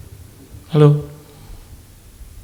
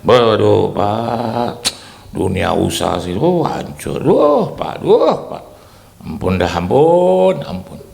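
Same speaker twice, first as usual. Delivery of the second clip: complaining businessman; 5 semitones lower, 4 dB louder, slower than usual. Retold or imitated. Friend whines to the pastor about business. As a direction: wail that business is crushed. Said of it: "Ngomongnya begitu".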